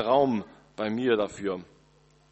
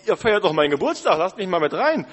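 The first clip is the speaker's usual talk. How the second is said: louder, higher pleading call; 5 semitones higher, 7 dB louder than usual. Pretend. Birthday child shouts over the party music to be let in. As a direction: call through the door to be heard. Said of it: "rufst du noch".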